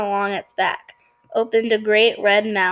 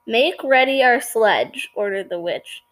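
story narration. A narrator's reading. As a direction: read the tale aloud at an even pace. Reads story aloud to listeners.

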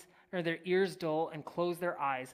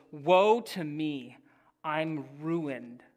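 dramatic lament; 6 dB louder, much slower than usual. Acted. Preacher reenacts Isaiah's cry.

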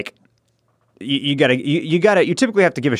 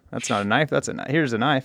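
Crocodile Dundee quote; 7 dB quieter than usual. Retold or imitated. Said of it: "Crocodile Dundee".

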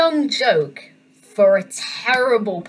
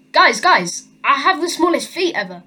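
mock excited; 4 semitones higher than usual. Second dwarf announcing his record to the others, acting excited. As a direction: break big news to your mates, lightly hammed up. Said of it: "He comes out really excited".

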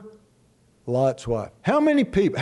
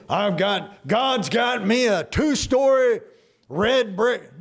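raised, lightly mocking preacher voice; imitated preacher; 4 semitones higher than usual. Mimicking a preacher's dream house in heaven, mock-proud and raised. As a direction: proclaim it like a preacher boasting of his mansion. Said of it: "you know what his idea of heaven was".

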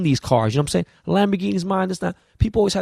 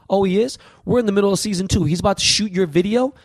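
higher-pitched, indignant questioning; mock-surprised, raised pitch; retold incredulity; 5 semitones higher than usual. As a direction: replay your disbelief at the news. Retells disbelief at colleague's news.

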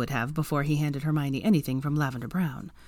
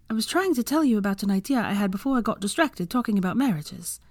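lightly voiced higher-pitched woman character; Hermione; 5 semitones higher than usual. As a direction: explain an idea in a higher character voice.

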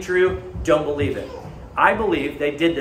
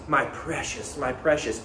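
Gollum; 3 semitones lower, 5 dB quieter than usual. Retold or imitated. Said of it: "And Gollum says".

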